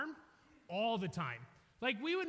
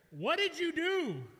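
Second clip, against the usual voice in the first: louder, slow angry demand; 5 semitones higher, 6 dB louder, slower than usual. Retold or imitated. Shouting at the kid who flipped the crate, slow and louder. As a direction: boss shouting at the kid who broke glass, slow and loud. Uncle yells at him.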